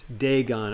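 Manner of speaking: "Dagon" with long A, full -on; first vowel of "Dagon" as in day; Dagon as DAY-gon. Shown as a demonstration. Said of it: "I always pronounce it Dagon".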